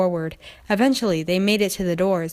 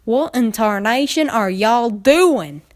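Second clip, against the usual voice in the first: lightly voiced, slow, louder country mare; puzzled Applejack; 3 semitones higher, 5 dB louder, slower than usual. Applejack demanding answers from the fillies, lightly voiced.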